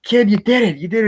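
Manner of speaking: very high, loud cheering; hammed-up high, loud joy; mock elation. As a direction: cheer the kid on breathlessly. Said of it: "He's like".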